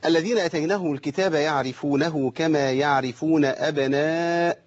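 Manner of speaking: slow measured recitation; Quran recitation. Shown as a demonstration. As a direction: recite with tajweed, unhurried. Recites verse as demo.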